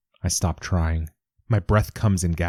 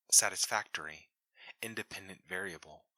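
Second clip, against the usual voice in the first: distant comm voice; 13 dB quieter than usual. Acted.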